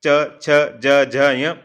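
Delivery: च छ ज झ य drawn out slowly; slow model for repetition; slow letter drill. Shown as a demonstration. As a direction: stretch each letter so the class can copy. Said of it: "उच्चारण करें".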